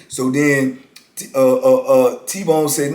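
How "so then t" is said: normal talking voice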